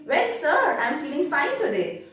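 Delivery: lifted, mildly enthusiastic answer; match an examiner's enthusiasm politely; enthusiastic reply. Acted. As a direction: start high and keen, then ease off. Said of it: "answer with the same enthusiasm".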